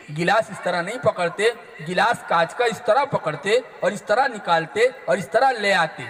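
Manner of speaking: reassuring mother telling her daughter not to worry; gentle mother. Retold or imitated. Mother comforts the frightened daughter.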